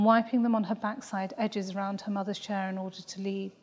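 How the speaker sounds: usual speaking voice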